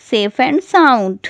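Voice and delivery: safe and sound, drawn out slowly word by word; slow teacher repetition of safe and sound; very slow, spelled-out teaching pace. Shown as a demonstration. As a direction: stretch safe and sound out slowly so learners catch it. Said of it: "सही सलामत को कहते हैं".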